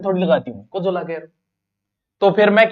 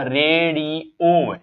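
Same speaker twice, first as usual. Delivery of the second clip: slow demo; 2 semitones lower, much slower than usual. Shown as a demonstration. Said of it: "कौन सा शुद्ध है".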